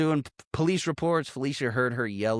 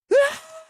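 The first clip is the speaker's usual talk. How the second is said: short, high muffled yell; tiny high-pitched outburst, as if behind glass; muffled mock scream; 6 dB louder than usual. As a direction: imitate a scream muted by a window. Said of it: "muted from the window".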